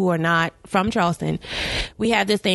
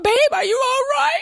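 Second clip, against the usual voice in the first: high put-on sugary girlfriend; mocking sweet voice. Girl on the phone to her man, high mock sweetness. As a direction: coo it like a fake-sweet girlfriend.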